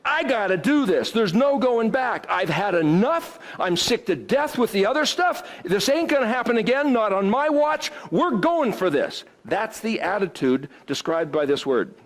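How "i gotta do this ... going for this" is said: resolute vow. Retold or imitated.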